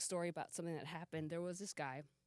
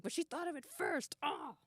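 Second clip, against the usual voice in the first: mock self-quote; 9 semitones higher than usual. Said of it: "I was like".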